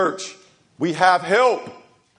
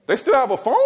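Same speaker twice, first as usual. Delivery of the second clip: repeated higher in disbelief; incredulous; 6 semitones higher, faster than usual. Retold or imitated. Pastor doubting a parent's lax discipline, incredulous. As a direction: ask it again, shocked they allowed it.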